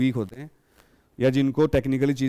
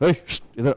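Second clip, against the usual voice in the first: mock-rude, curt, hissing delivery. Acting out a young man summoning a waiter insultingly: mock-rude curt call. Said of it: "insulting तरीके से बुलाता है सीटी मार के ... ऐसे बोलता है".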